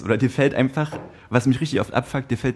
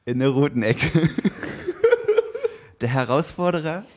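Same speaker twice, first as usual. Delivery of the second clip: boxing ring announcer. Acted. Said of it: "Paul sein Intro machen".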